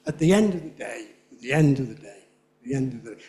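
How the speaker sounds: "of the" reduced to sound like "other". Shown as a demonstration. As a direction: say "end of the day" with "of the" squashed to "other". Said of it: "very often pronounced other".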